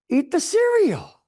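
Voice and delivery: a lightly voiced mother laying down the law; firm mother. Mother telling the boy how to stop the noise, slow and firm.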